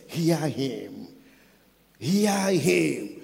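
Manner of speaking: authoritative pronouncement, no pleading; commanding, not begging. Acted. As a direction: order it with total confidence, swelling. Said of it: "He was not appealing. He was not begging".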